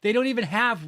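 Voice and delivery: chuckling through the words; laughing. Real, not acted. Streamer to chat about lobby chairs, laughing. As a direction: laugh while pointing it out.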